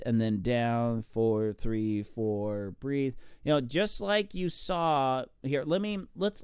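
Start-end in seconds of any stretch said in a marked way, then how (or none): 0.1-3.1 stroke count demo. Shown as a demonstration. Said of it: "And then I take a good breath".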